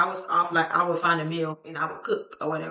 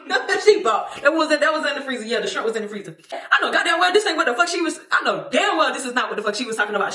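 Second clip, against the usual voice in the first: higher, louder words through real laughter; laughing while talking; 6 semitones higher, 4 dB louder than usual. Real, not acted. Recounting the roommate's shopping, talking through laughter. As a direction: push the words out between laughs.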